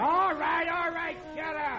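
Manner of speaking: high, loud flustered snap; rattled driver barking back. Acted.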